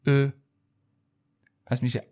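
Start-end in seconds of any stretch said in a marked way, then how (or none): 0.1-0.3 "ا" as French eu, from the throat; rounded French vowel. Shown as a demonstration. Teacher introducing the letter, throaty rounded "ا".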